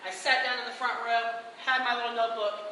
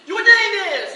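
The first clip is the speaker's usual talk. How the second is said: loud, high emcee quip; lightly hammed host; showy stage question; 6 semitones higher, 13 dB louder, slower than usual. Performer asking Lenny's name, loud showman.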